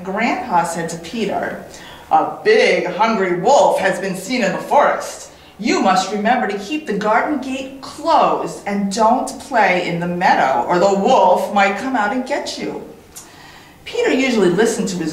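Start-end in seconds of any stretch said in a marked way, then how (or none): 2.1-12.8 grandpa's warning. Acted. Grandpa warns Peter in story.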